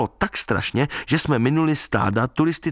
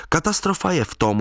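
higher hooted retort from Lída; 6 semitones higher than usual. Retold or imitated. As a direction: fire it back at him, pitched up. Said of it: "houkla Lída".

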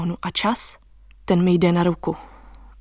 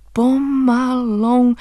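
stretched out, higher word; very slow; 4 semitones higher, much slower than usual. Acted. Narrator slowing the memory down, very slow. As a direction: draw the word out as long as possible.

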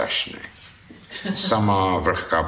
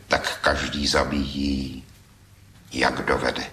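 with feeling; 4 semitones lower than usual. A narrator's reading. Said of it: "s takovým citem".

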